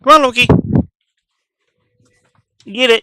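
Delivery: high, loud call to the dog. Real, not acted. Calling the dog excitedly.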